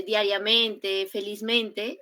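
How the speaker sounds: both diariamente and felizmente with two beats, on the stem and on MEN; double stress. Shown as a demonstration. Teacher giving examples of words ending in mente, double stress. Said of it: "esas palabras tienen doble acentuación".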